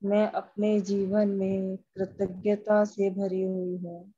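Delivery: measured meditation voice, phrase by phrase; guided affirmation. Acted. Leading a group through EFT tapping, measured guided affirmation. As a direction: recite affirmations with pauses for others to follow.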